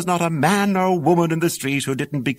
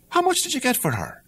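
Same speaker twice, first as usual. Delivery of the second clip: higher, eager mother's voice; an old mother pressing her son; 11 semitones higher than usual. Acted. Mother asks Jack about the cow, higher and eager.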